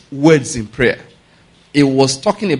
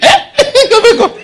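laughing; 7 dB louder, slower than usual. Acted. Uncle laughs calling the boys.

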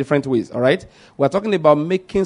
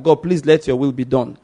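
lightly voiced plea at an everyday pace; mild request. Shown as a demonstration. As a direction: ask it simply, as a modest request. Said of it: "it wasn't a request per se".

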